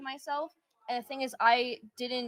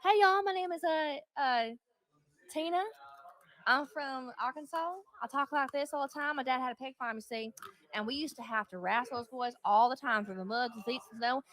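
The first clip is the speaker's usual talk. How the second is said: put-on southern accent. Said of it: "I can do an impression of one".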